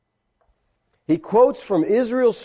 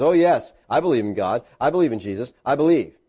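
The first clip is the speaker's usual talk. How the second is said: sarcastic; 6 semitones lower than usual. Retold or imitated. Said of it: "he kind of sarcastically says".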